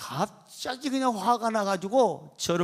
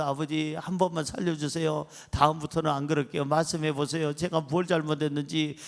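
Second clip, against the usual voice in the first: lower, subdued imitation of begging; tearful pleading; 4 semitones lower, 3 dB quieter than usual. Kneeling son begging his father for mercy, subdued pleading. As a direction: plead meekly for mercy, lightly acted. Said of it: "눈물을 흘리면서".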